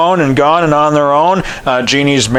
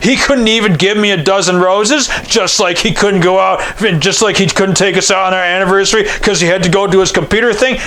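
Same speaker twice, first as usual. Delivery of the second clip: mild mock resentment; 4 semitones higher than usual. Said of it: "She's like, and she was mad".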